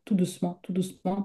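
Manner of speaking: softening repetition of tout doucement; fading softly. Shown as a demonstration. Repeats phrase, letting it fade.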